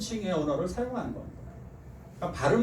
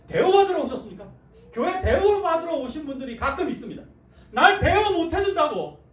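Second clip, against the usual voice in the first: loud, high impassioned sermon; full-force revival preaching; fiery preaching; 8 semitones higher, 6 dB louder than usual. Acted. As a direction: preach it hard to the pews.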